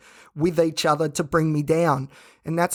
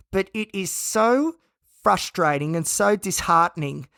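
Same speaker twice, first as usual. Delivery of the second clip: through gritted teeth; 3 semitones higher than usual. Real, not acted. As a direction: push it out through clenched teeth. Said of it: "talking through gritted teeth".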